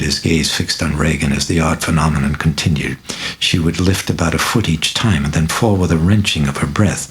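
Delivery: usual speaking voice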